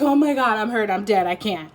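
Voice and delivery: feigned dying protest that fades away; dramatic antics. Acted. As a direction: play-act a hurt drama queen, lightly. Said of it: "I heard dramatic antics".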